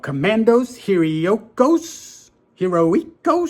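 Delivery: slow, careful Spanish-accented Commandos Heroicos. Shown as a demonstration. Comic collector reading a Mexican title aloud, Spanish accent. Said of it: "sorry for my accent".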